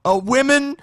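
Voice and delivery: high, loud, drawn-out impersonation; hammed-up mock convert, halting and high-pitched; parody testimony voice. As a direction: mimic the testifying man, stretching the words. Parodying the clip's testifying man.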